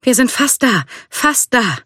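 high, encouraging call. A narrator's reading. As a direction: call it out high, repeating the reassurance. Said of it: "rief sie".

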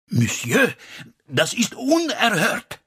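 high-pitched, outraged protest; indignant. A narrator's reading. Slavic lady protests at being detained, indignant. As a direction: protest in a high, affronted lady's voice.

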